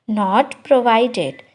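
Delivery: slow, careful model phrase; slow teacher demo of the English. Shown as a demonstration. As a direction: drag out each word for learners. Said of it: "slow take after normal one".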